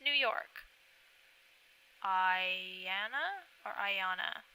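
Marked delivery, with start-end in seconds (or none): 2.0-4.4 "Ayanna" said slowly with rising doubt, then its other vowel; trying two pronunciations. Real, not acted. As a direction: sound out "Ayanna" as eye-ANN-uh, then eye-AH-nuh. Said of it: "I like to say them correctly".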